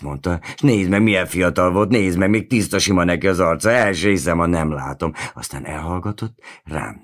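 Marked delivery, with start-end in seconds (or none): 0.5-5.1 excited. A narrator's reading. Worker marvels at young face.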